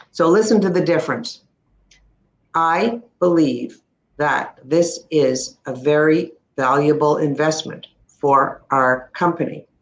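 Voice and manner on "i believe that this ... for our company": flat monotone read, voice trailing away; deflated sales pitch with no conviction. Shown as a demonstration. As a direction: say it like you don't believe it. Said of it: "No conviction".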